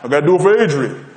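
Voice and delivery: imitated Italian-American boxer voice; light impression of an Italian-American prizefighter; Rocky. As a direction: play a boxer insisting he can still fight. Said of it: "Rocky in his Italian voice".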